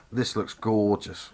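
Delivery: put-on a light, slowed Norfolk accent on gorgeous. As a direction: drawl it out in a hint of Norfolk accent. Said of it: "Gorgeous in my Norfolk accent".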